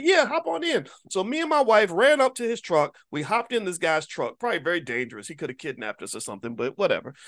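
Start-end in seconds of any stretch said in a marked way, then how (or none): 0.0-0.9 high-pitched inviting holler; imitated yelling. Driver inviting a stranger into the truck, imitated yell. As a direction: imitate a driver calling someone over. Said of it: "we were yelling back and forth".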